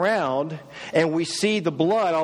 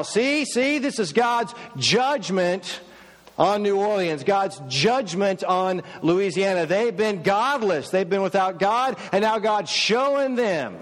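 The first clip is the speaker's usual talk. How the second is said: higher, slow fire-and-brimstone pronouncement; judgmental preacher; 3 semitones higher than usual. Retold or imitated. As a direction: proclaim judgment like a TV pastor. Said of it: "talking in the media about how".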